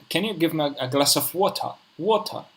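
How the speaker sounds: attempted British accent on a request for water; tentative try at British English, rising on the last water. Shown as a demonstration. Student trying his best British accent for his friend, British accent. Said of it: "give me your best British accent".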